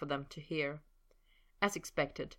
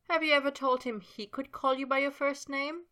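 Sabrina's line; 9 semitones higher than usual. A narrator's reading. Sabrina voiced.

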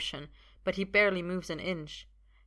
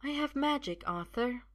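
high-pitched woman's voice; high, earnest revelation; assured enchantress; 7 semitones higher than usual. Acted. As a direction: declare it in a high, even lilt. Sophia declares her magic.

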